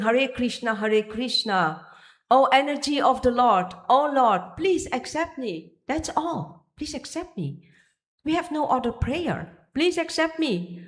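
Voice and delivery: high, imploring call to the Lord; pleading prayer. Acted. Devotee crying out to the Lord, high and imploring. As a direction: beg humbly to be accepted. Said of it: "So we are addressing".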